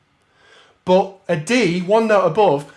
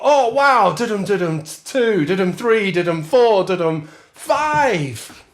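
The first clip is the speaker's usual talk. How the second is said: high surprised scatting; excited rhythm section; 4 semitones higher, slower than usual. Retold or imitated. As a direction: act the surprised band counting on. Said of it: "but then go".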